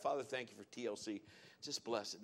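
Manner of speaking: soft, quick murmured prayer; under my breath. Retold or imitated. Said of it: "said it under my breath".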